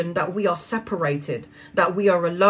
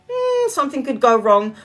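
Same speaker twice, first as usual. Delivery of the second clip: higher, worried little voice of doubt; doubting inner voice; 6 semitones higher than usual. Retold or imitated. Mouth voicing doubt to herself, higher and worried. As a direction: voice the nagging doubt in your head. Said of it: "my mouth is going".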